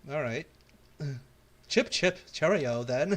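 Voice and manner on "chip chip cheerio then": hammed-up posh British chirp; British accent. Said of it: "I think you should be British".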